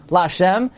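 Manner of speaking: "lashem" with SHEM stressed; stress on last syllable. Shown as a demonstration. Teacher repeating the right form, SHEM stressed in "lashem". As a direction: put the weight on SHEM in "lashem". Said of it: "God's name is always a milra".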